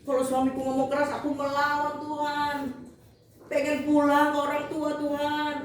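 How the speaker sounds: lightly acted crying prayer; mildly whiny, retold lament in prayer; imitated weepy prayer. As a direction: re-enact a tearful plea to God. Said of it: "saya kalau berdoa begitu saya nangis".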